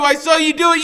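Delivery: shrill, very high, loud screamed accusation; a boy shrieking the accusation at full force; screaming. Acted. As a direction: scream it with everything. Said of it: "so all I can do is keep screaming".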